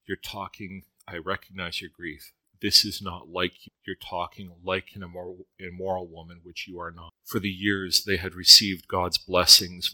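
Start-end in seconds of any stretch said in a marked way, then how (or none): 0.0-7.1 soft, quiet and reassuring, set against the harsh version; understated loving rebuke; tender correction. Retold or imitated. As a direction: gently tell her "this is not like you". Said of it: "He said".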